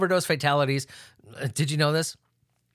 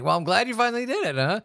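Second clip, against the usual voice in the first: mock praise; 7 semitones higher, faster than usual. Mock congratulating the scientists.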